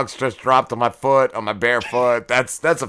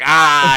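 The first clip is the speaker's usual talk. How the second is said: louder, short acted "ah"; mock yelp of pain; 6 dB louder than usual. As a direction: yelp as if hair were yanked. Retold pain, chest hair pulled.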